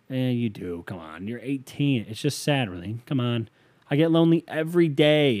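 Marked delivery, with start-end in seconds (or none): 3.9-5.4 raised, emphatic voice reading capital letters; all caps. Retold or imitated. Reading a listener's all-caps line aloud, loud and emphatic. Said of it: "in caps".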